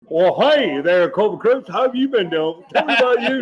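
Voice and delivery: mock-friendly officer buttering up an old corporal; imitating Hardison. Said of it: "That's how he talks to you".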